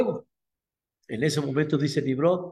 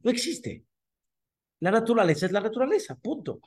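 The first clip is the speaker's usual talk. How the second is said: higher, slow, dismissive voice; scoffing emperor; 4 semitones higher than usual. Acted. Nimrod scoffs at the idea of God, higher and dismissive. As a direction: brush God aside like a proud tyrant.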